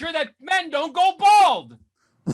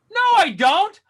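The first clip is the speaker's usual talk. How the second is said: sharp, louder mock refusal; comic outraged no; indignant retort; 3 semitones higher, 4 dB louder than usual. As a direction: snap back at the doctor. Refusing doctor's offer, retort.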